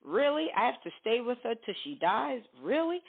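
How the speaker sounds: high, rising disbelief; incredulous. Acted. Spouse told to stay despite an affair, incredulous. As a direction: protest with questions that swoop upward. Spouse doubting till-death vow.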